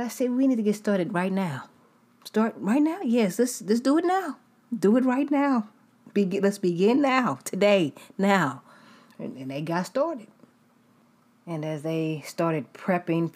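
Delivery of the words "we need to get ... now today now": urgent eager demand. Retold or imitated. Eager patient demanding treatment now.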